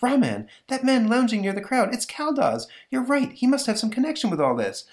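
high-pitched woman character voice; high, breakneck-excited heroine; excited Elsa. Acted. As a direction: point out a discovery in a high, urgent voice. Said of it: "Elsa's looking out the window and says".

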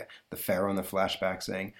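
usual speaking voice

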